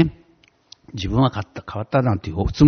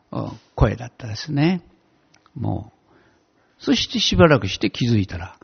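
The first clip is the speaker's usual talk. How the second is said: ordinary talk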